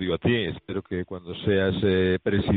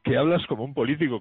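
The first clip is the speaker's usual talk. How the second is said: higher and louder, a bit quicker; repeated louder; 6 semitones higher, faster than usual. Real, not acted. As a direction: say it again so he hears. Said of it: "¿Perdón?".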